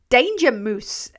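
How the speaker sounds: reading the name Danger Moose in a light Scottish lilt; Scottish accent. Retold or imitated. Streamer mimicking a commenter's name in Scottish accent. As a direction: say Danger Moose like a Scot would. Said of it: "He sounds like a Scottish person trying to say Danger Mouse".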